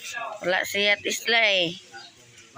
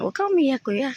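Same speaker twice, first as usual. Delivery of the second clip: high-pitched, coaxing comfort; 8 semitones higher than usual. Real, not acted. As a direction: soothe them in a much higher voice. Comforting someone said to be crying.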